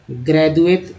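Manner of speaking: ग्रेजुएट with a dental द, said at normal speed; ग्रेजुएट with a soft dental द. Shown as a demonstration. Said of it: "अब द के लेकर उच्चारण करते हैं".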